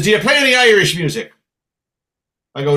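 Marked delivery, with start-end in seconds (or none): 0.0-1.3 quick, higher, pushy question; challenging pub regular. Acted. Regular interrogating the new musician, raised challenge. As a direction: fire it at him as a suspicious regular. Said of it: "he says".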